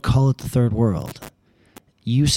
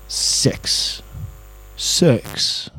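mock Middle America voice on a single word; Middle American accent; 3 semitones higher than usual. Driver dropping his price, mock Middle American accent. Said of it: "That's my Middle America voice".

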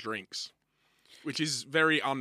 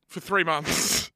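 incredulous; 3 semitones higher, 6 dB louder, much slower than usual. Pretend. Incredulous repeat.

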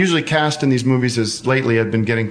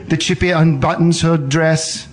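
imitated German narrator, slightly raised; German-accented voice-over parody; Werner Herzog; 3 semitones higher than usual. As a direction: describe the scene in a mock German accent. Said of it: "so he would say".

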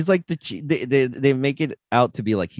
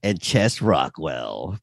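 dramatic name reveal; 5 semitones lower, much slower than usual. Retold or imitated.

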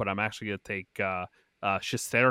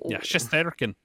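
Braveheart accent; 5 semitones higher, slower than usual. Real, not acted. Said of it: "you just sound like you're doing fucking Braveheart".

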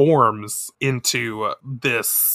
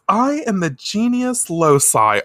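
higher, slow grand declaration; monster announcing itself; 6 semitones higher than usual. Retold or imitated. Spirit introduces itself to the girls, hammed-up grandeur. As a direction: proclaim it like a hammy spirit. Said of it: "the monster, says".

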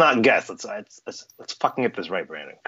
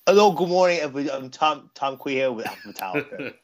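imitating a listener; 6 semitones higher than usual. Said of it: "if you were Tom".

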